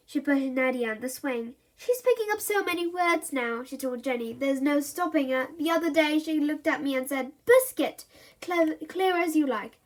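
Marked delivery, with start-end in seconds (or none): 1.8-9.8 higher, chattering quickly; boastful mum. Acted. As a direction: brag about your child.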